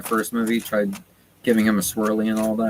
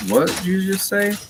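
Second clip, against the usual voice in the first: pitched way up in shock, imitating Percy; a retold, incredulous demand, much higher; stunned disbelief; 10 semitones higher than usual. Percy confronts the Fates, stunned.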